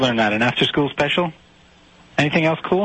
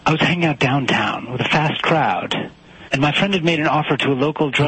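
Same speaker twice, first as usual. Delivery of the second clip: writerly radio voice. Acted. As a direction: put on airs like a first-gig college DJ. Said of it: "you don't sound like yourself".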